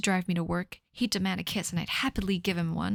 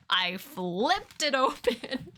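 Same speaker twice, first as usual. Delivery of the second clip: slow; 3 semitones higher, much slower than usual. Acted. Trying line readings.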